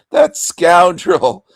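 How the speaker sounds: high, loud, slow huffy voice; mock prissy lady. Mocking the woman who left, as an outraged prim lady. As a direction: ham up an offended lady.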